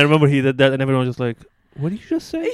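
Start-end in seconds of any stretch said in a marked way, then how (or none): 1.7-2.5 imitating a stunned crowd, pitched way up; high, incredulous retort in retelling; mock shocked. Friends reacting to a forbidden mom joke, mock shocked.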